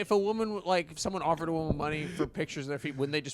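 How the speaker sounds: lightly put-on silly voice; a hint of a character voice. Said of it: "Why are you doing a voice?".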